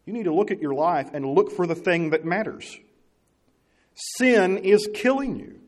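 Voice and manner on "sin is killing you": earnest warning. Real, not acted. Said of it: "earnest warning".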